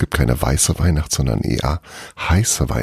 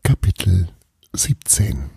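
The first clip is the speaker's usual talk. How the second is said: breathy whispered chapter title; 3 semitones higher than usual. Shown as a demonstration. Narrator announcing the chapter, whispered. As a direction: whisper it like a secret. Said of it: "los geht's".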